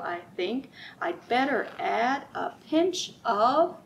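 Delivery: sing-song picture book read-aloud; lilting, rhythmic storybook voice; reading to children. Acted. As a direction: read it like storytime for little ones.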